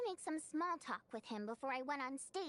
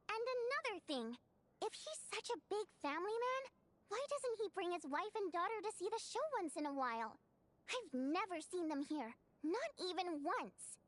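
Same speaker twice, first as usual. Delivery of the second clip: indignant venting, pitched higher; worked-up rant; 3 semitones higher than usual. Acted. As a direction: keep airing the grievance, exasperated. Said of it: "Calm down".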